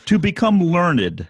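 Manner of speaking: slow, measured recitation; reading scripture aloud. Acted. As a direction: read each line slowly, like a text. Reads Tao Te Ching aloud.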